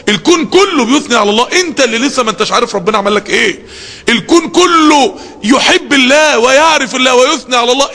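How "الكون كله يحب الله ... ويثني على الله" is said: real emotion breaking through; choked-up fervour; tearful. Real, not acted. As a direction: voice catching with tears, raised. Preacher moved to tears.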